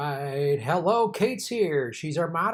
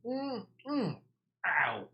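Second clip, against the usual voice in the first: brain freeze pain; 5 semitones higher, much slower than usual. Real, not acted. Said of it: "brain freeze".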